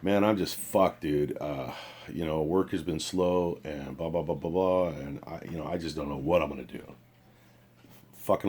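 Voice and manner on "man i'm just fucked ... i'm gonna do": imitating a depressed friend. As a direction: mimic a buddy sounding defeated about money. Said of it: "You sound like you're depressed".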